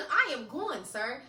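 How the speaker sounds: slow, laughing through "I am going". Retold or imitated. Telling the yelling man she is leaving, laughing slowly. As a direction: chuckle while insisting you're leaving.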